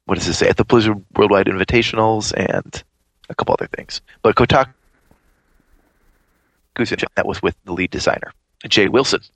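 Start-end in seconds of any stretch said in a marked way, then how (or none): 3.3-9.2 choppy glitchy call audio; breaking up call audio. Real, not acted. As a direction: voice cutting in and out over Skype. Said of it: "you're breaking up a lot".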